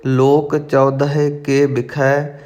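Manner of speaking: measured, careful recitation of sacred verse; intoned verse for learners; scripture recitation. Acted. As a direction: recite each phrase distinctly, holding the endings.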